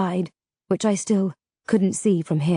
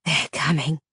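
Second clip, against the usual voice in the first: ominous; 6 semitones lower than usual. Acted. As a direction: warn them in a low voice. Rubers ominous low.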